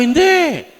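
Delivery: high, loud "Hindi!"; a firm quoted no; sharp refusal. Retold or imitated. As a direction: cut him off firmly. Pastor quotes himself refusing.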